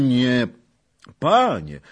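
put-on loud, high, delighted old man; joyful cry. A narrator's reading. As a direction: call out with relief and joy. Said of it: "zawołał z radością dziad". (radosny okrzyk starca)

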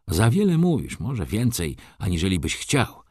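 "Za wiele mówisz" high and pressed, then easing; pointed emphasis. A narrator's reading. Friend warns the drinker, pointed stress on "Za wiele mówisz". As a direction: lean hard on "Za wiele mówisz". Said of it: "dodał z naciskiem".

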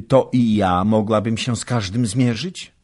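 put-on eager young wife. A narrator's reading. Baśka's eager question to husband.

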